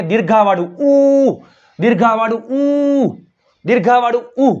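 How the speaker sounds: ઉ held long and stressed each time; teacher drilling દીર્ઘાવાળું ઉ. Shown as a demonstration. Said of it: "તે અક્ષરને".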